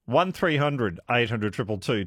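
usual speaking voice

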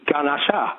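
"Ganesha" with a full ah in place of schwa; full A vowels. Shown as a demonstration. Caller spelling it out to host, Ganesha with full A. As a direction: open up the first vowel of "Ganesha" to GAH. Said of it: "which is an A, which should be".

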